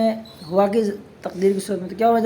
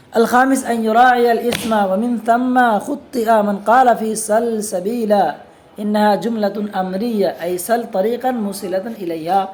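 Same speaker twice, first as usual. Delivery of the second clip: slow, measured reading of the Arabic text; slower than usual. Acted. Teacher reading the Arabic book aloud to students, slow and measured. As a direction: read each Arabic phrase out slowly, like a classroom text.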